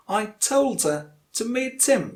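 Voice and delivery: "him" said as "im", linked to "meet"; weak form of HIM. Shown as a demonstration. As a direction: stress "told" and "meet", drop the h of "him". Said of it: "you have to use im".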